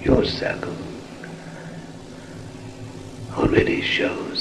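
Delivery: slow, hushed and solemn, half whispered; solemn whispered sermon. Acted. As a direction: intone it like a spirit blessing the circle. Spirit guide addresses circle.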